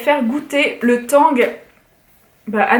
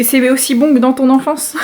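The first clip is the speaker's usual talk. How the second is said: laughing; 4 dB louder than usual. Real, not acted. Teasing father, laugh heard.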